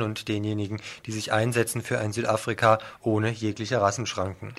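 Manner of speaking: steady radio news reading. Acted. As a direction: read the headlines like a radio presenter. Reads the programme preview.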